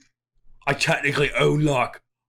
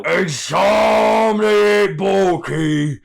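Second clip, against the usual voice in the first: loud, slow, drawn-out battle cry; slow rising orc war cry; hype shout; 4 semitones higher, 3 dB louder, much slower than usual. Acted. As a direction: bellow it like a pumped-up orc. Borky hyping himself up.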